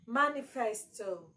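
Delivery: manifesto with the first syllable stressed; MA-nifesto, falling away after. Shown as a demonstration. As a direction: lean on the MA of manifesto. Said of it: "So ma, your stress is on ma".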